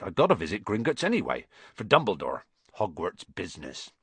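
breezy reassuring giant; hearty giant waving worries away; Hagrid voice. Acted. Hagrid reassuring Harry about his gold, breezy.

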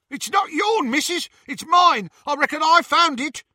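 high, loud rough rustic voice; a coarse thug claiming his find; rough snatcher. Acted. Snatcher defying Bellatrix, loud rough rustic voice.

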